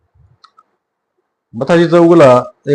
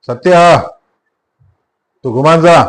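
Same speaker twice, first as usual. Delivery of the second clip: higher, sharp warning with the name pushed up; suddenly raised voice; 4 semitones higher, 3 dB louder, slower than usual. Acted. Mathaji warning Sattu off, suddenly raised voice. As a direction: tell him to get lost, voice jumping up. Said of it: "एकदम आवाज चढवून तो म्हणाला".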